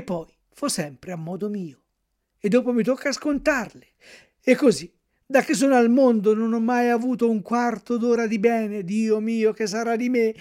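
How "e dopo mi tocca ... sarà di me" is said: loud, higher wailing; despairing lament. A narrator's reading. Puppet bewailing his fate by the shore, loud wail. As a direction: mourn your bad luck aloud. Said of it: "continuava a piangere, a berciare".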